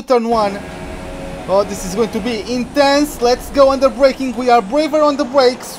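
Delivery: lively play-by-play of his own race; racing play-by-play; live race commentary. Acted. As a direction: call the race as it happens, a touch keyed up.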